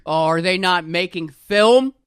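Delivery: mock snooty. Mocking a pretentious co-host.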